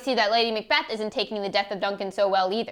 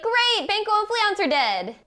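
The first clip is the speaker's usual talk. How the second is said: high, delighted cheer; gleeful; 8 semitones higher, slower than usual. Acted. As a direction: crow over the good news. Macbeth voiced gleefully.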